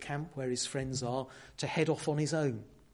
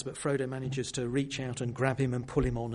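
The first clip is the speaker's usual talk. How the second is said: normal talking voice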